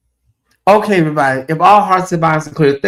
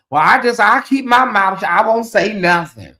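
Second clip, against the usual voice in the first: put-on older aunt; 5 semitones higher, 3 dB louder than usual. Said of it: "some of your older aunts".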